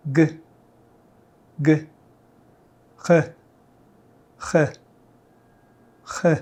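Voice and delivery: g sliding into a French throat r; from g to the uvular r. Shown as a demonstration. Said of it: "Let's practice again".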